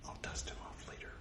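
unvoiced throwaway whisper; whispered aside. Real, not acted. Aside about the dusty figure, whispered. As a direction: drop to a whisper for a private joke.

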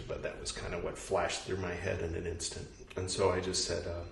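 ordinary talk

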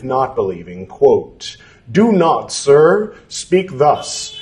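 measured, deliberate scripture reading; formal reading aloud. Acted. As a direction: read it like an old formal text. Reads scripture text aloud.

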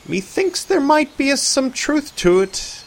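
a hint of a hesitant old-fashioned man; lightly voiced Arthur. A narrator's reading.

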